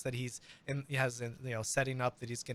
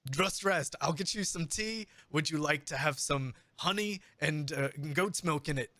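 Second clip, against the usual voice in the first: fussing innkeeper; 4 semitones higher than usual. Acted. Innkeeper fussing over bard.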